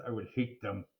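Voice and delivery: hushed grumbling aside; whispered aside. A narrator's reading. AJ muttering to the listener, whispered. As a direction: drop to a whisper. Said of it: "narrator aside".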